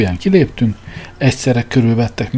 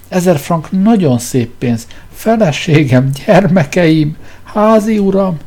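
much higher, louder, very slow sob; sobbing; 8 semitones higher, 4 dB louder, slower than usual. Acted. Editor sobs at the king's small advance. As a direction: drag it out in a mock wail. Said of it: "zokogta Szapjanin".

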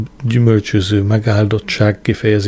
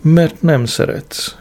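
slow, higher-pitched martyr; martyr's voice; 6 semitones higher, slower than usual. A narrator's reading. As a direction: draw it out like a suffering martyr. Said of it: "felelte egy mártír hangján".

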